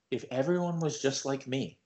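as if enlightened, calm and hushed; a touch of mock nirvana calm; quiet and calm. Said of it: "he got real quiet and real calm".

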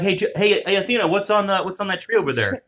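high playful voice to a dog; dog-talk voice. Pretend. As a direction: tease the dog about the tree.

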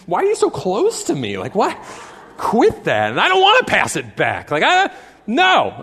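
irritated fan, lightly acted; mock grumbling. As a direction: complain like a fed-up spectator. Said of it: "they began to grumble and complain".

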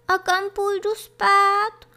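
put-on high, timid little kid-goat voice; bojácný hlásek. A narrator's reading. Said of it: "zeptal se bojácně". (bojácně, vysokým hláskem)

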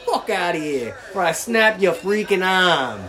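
put-on Boston accent. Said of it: "I'll say it in the Boston, uh, accent".

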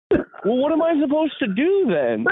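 put-on high, puzzled old lady voice; lost and asking for help; confused old lady. Old lady asks the narrator what to do, confused.

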